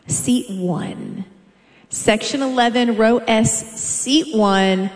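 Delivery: announcer calling out the winner's seat; arena PA call; seat announcement. Acted. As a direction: read the seat number clearly to the crowd. Announcer calls winning seat.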